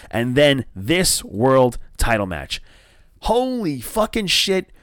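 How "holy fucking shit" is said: high, slow, amazed burst; awed exclamation. Real, not acted. Fan raving to viewers about the match, awed. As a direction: blown away by the match.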